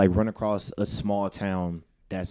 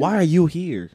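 suspicious local voice; 8 semitones higher, 3 dB louder, much slower than usual. Retold or imitated. Mimicking hostile locals.

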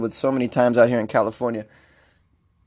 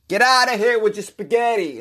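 mock dismissal; 6 semitones higher than usual. Paraphrases mayor's dismissal.

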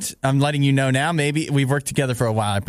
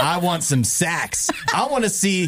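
put-on higher-pitched New York mafia-guy accent; 5 semitones higher than usual. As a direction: do an amateur New York mobster. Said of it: "sound like a mad mafia guy from New York".

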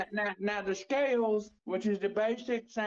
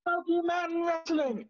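mock mystical; 9 semitones higher than usual. Fortune teller prediction.

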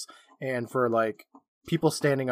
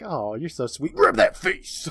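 mock sweet, laughing; slower than usual. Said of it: "I'd be like".

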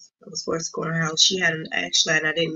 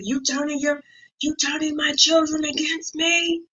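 demonic voice; 11 semitones higher than usual. Retold or imitated. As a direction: speak it like a possessed woman. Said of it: "a deep, like, a demonic voice".

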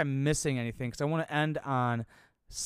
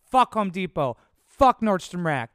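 loud, higher ranting curses; angry rant; 4 semitones higher, 7 dB louder than usual. Real, not acted. Ranting about old jobs, loud angry cursing. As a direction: spit out the curses, slowing on the last.

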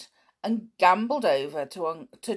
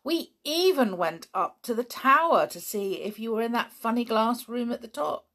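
put-on eager boy; 5 semitones higher than usual. Dick voiced by reader.

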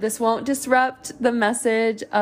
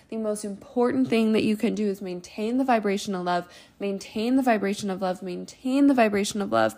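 repetitive, incantatory chanting of phrases that gradually fade away; channeled message. Acted. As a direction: speak as if a message is flowing through you, repeating it like a mantra. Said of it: "when things come through that quickly and that repetitiveness".

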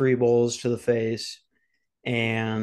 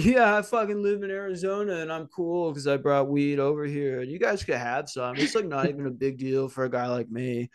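a hint of a show-off stoner bro; mock cocky bro. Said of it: "I would be like".

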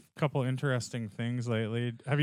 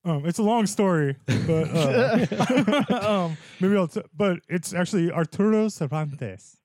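a hint of a trailer announcer; movie voice guy; 3 semitones higher than usual. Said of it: "he's gonna do movie voice guy for me".

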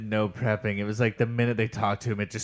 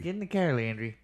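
Canadian parent; 4 semitones higher, 4 dB quieter than usual. Acted. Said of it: "does sound like a Canadian name".

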